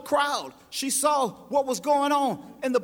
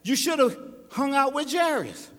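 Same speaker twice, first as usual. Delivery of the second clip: complaining to God. Retold or imitated. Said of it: "I start talking like that".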